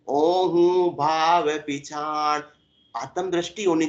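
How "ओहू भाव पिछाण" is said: very slow, drawn-out couplet recitation; intoned verse. Acted. Preacher quoting a verse on love to devotees, intoned verse. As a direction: stretch each word like a devotional chant.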